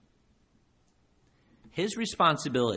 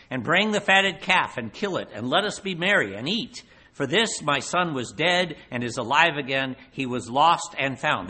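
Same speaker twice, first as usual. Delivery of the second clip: joyful father calling; 2 semitones higher, 5 dB louder than usual. Acted. Father's joyful feast order.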